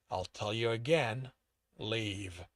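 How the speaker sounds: low, controlled order; steady voice. A narrator's reading. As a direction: give a final warning evenly, without raising your voice. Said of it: "L R K's voice was steady".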